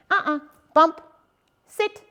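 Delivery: a quick, sharp guiding uh-uh; correction marker. Shown as a demonstration. Trainer correcting the dog with a leash bump. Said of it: "use my leash and go".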